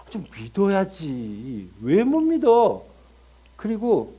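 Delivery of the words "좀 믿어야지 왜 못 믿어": exasperated plea. Acted. God pleading, slowed.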